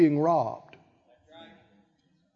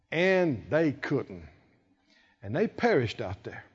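ordinary talk

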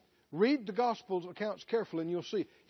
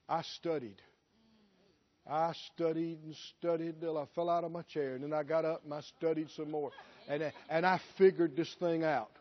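lower, smug voice bragging about the studying; self-made boaster; 3 semitones lower than usual. Retold or imitated. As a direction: play the proud self-taught preacher. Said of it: "what a lot of people would have said".

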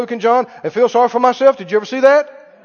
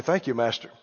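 much lower and soft, meek; bow your voice down to the master; humble thanks; 10 semitones lower, 9 dB quieter than usual. Acted. Student humbly thanking the master, low and soft.

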